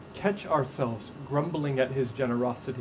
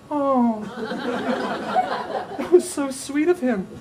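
high, laughing mock gush; 9 semitones higher, slower than usual. Wedding guest gushing over the groom, high and laughing. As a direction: gush through a laugh, much higher.

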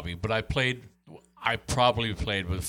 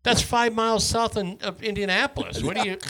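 incredulous; 10 semitones higher than usual. Retold or imitated. Baffled newcomer questioning local's accent.

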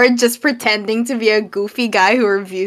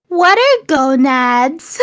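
silly joke voice; 4 semitones higher, slower than usual. Retold or imitated. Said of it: "funny to go".

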